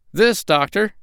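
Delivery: high-pitched monkey presenting a find; proud monkey. A narrator's reading. Voices Chee-Chee the monkey.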